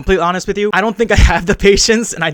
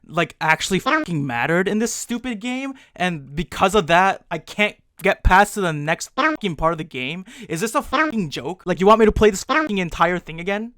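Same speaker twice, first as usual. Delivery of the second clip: exasperated disbelief, rising to a peak; not very happy; 2 semitones higher than usual. Real, not acted. Player learns he must replay the game, increasingly exasperated. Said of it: "I was not very happy".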